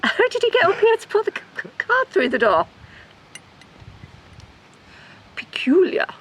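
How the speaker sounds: mock London twang on the question; doing a put-on Londoner, puzzled; a hint of a London accent. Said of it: "That's such a London accent".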